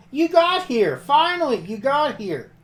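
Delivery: high, loud arrival cry; excited greeting. Acted. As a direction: burst in, thrilled they finally came. Character bursts in greeting friends.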